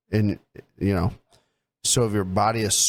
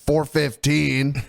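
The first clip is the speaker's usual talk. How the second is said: mocking imitation; 3 semitones higher than usual. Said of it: "you're like".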